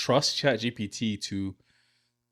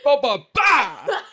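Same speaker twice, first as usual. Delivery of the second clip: laughing; 9 dB louder, much slower than usual. Acted. Laughing silly patois noises.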